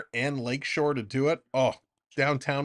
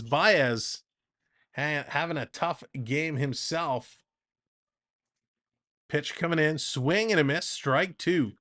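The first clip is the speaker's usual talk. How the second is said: lively baseball announcer delivery; play-by-play call. Acted. Streamer calling the Jays game for chat, announcer voice. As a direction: call the at-bat like a broadcast.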